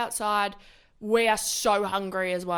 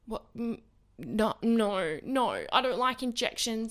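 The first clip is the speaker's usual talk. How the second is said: scared refusal; slower than usual. Retold or imitated. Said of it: "She said it like that too".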